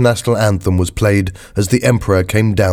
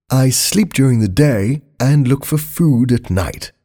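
lightly voiced prince reading his letter; measured, earnest letter to Mummy; a touch of princely sincerity, slowing on key phrases; son's letter home; 3 semitones higher than usual.

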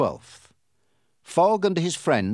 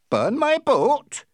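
slow, high, loud incredulous question; outraged; 14 semitones higher, 5 dB louder, slower than usual. A narrator's reading. Captain hearing his boat will burn, outraged. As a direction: stretch it out in appalled indignation.

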